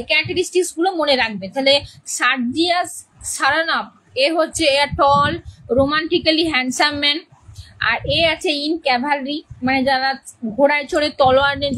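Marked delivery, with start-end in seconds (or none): 4.8-7.2 very slow, word by word for note-taking; dictating to the class at a crawl; slow dictation. Shown as a demonstration. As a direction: spell it out slowly so they can write. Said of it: "ক্যারেক্টারিস্টিকটা লিখে রাখো".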